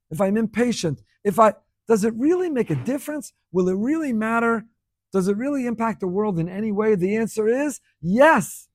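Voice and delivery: impassioned preaching. Real, not acted. Preacher challenging listeners on whether deeds matter, impassioned. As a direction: press each question home like a preacher. Preaches with rising rhetorical questions.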